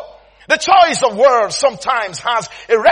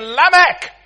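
higher, punched-out name call; teasing call; 4 semitones higher than usual. Retold or imitated. Friends making fun of him, teasing call. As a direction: call out the nickname to taunt him. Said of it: "started calling him again".

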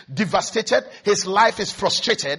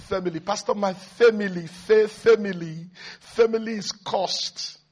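drawn-out imitation; 3 dB quieter than usual. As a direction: stretch the word family slowly. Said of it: "there's a way some people now say".

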